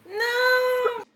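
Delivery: high shout of protest; loud no. Acted. Kitten yells at Milo before a pounce, shouting. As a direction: yell it at your sibling.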